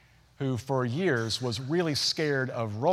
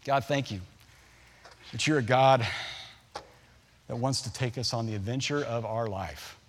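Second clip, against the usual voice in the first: prayer; 2 semitones lower than usual. Acted. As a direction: lead the church in heartfelt prayer. Pastor leads closing prayer.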